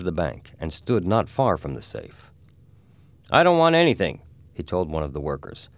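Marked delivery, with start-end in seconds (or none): 3.3-4.2 gruff detective voice. Acted. Ben Price speaks.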